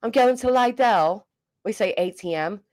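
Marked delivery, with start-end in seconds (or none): 0.0-1.2 slow, higher "Lidl" as LIE-dell; alternative pronunciation. Shown as a demonstration. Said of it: "what is it, Lidl?".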